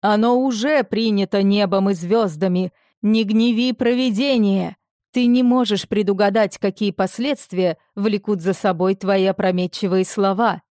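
booming voice. Acted. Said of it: "прогремел голос Арвера".

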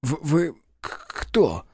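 official stumbles over his first words; slight stammer. A narrator's reading. Startled official stammers at intruders, lightly. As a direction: stammer lightly on the opening sounds. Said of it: "слегка заикнулся чиновник".

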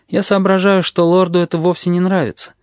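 ordinary delivery

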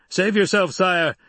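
high, loud desperate shout. A narrator's reading. Sardaukar officer shouting to the Emperor to flee. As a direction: plead loudly over the noise. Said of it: "a Sardaukar officer shouted".

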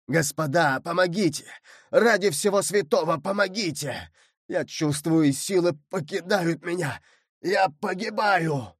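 rising to a terrified shout; trembling plea. Acted. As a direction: beg for your life as your strength runs out. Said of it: "Голос ... так дрожал".

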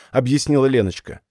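ordinary delivery, nothing marked

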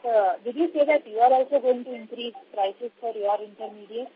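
faint and distant on the line; phone held away. Real, not acted. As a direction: mouth far from the phone. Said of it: "speak closer to the phone".

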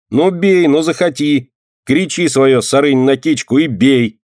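high, taunting dare; mocking. A narrator's reading. Boy taunts girl to strike him, high and mocking. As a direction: goad her to hit you. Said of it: "издевался он".

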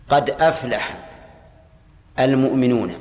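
slow, deliberate reading of the example; slow quoted verse. Shown as a demonstration. Teacher reading an example verse to students, slow and deliberate. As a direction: read the verse out slowly, word by word. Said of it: "مثال الأول".

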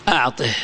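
"أعطه" low, ending on breathed h; ha of silence. Shown as a demonstration. Teacher repeating the pause form, final h. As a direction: close "أعطه" on an audible -ih. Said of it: "تقف بالهاء".

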